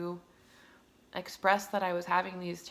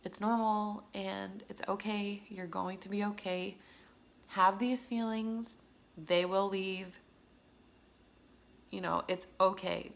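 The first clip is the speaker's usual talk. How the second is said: slow tender words to a scared new mom; reassuring. Retold or imitated. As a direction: comfort her like a friend would. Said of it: "All I wanted to hear".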